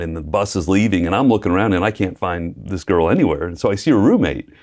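normal talking voice

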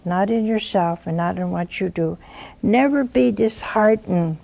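ordinary talk

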